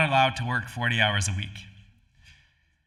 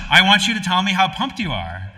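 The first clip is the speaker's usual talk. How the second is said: loud, higher-pitched mock manager's demand; retold pep demand; 7 semitones higher, 7 dB louder than usual. Manager pressing a teenage applicant for excitement, retold loud demand. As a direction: push it like a boss demanding enthusiasm.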